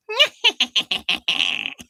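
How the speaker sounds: high cackling witch laugh. Pretend. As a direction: cackle like a wicked old witch. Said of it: "Really good witchy laugh".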